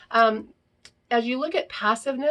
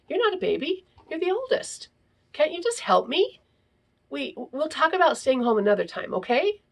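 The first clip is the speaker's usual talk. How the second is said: pleading mother; 7 semitones higher than usual. A narrator's reading.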